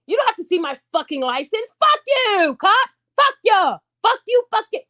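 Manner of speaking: high-pitched, defiant outburst; angry cursing. Acted. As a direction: curse out the officer in a high voice. Acting out cursing at a cop.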